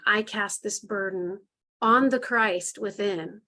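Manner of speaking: slow, deliberate, every word placed evenly; slow affirmation. Shown as a demonstration. Leader models the affirmation for the group, slow and deliberate. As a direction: speak it like a solemn vow, slowly. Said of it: "And then say your affirmation".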